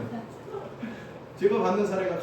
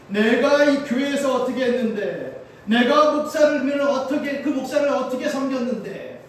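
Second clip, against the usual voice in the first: louder, slower, pitched higher, aggrieved churchgoer imitated; indignant complaint; 5 semitones higher, 6 dB louder, slower than usual. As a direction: stretch out 내가 like a hurt, indignant member. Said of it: "떠나가시는 분들의 모습을 보면요". (서운함에 언성을 높여 항의하듯)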